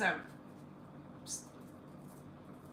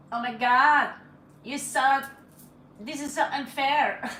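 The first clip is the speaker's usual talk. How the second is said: hammed-up whining, louder; mock whiny complaint; 3 semitones higher, 8 dB louder than usual. Reader imitating the ex whining that it's unfair, mock whiny. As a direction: whine it like a sulky guy. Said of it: "He sounds a little bit like".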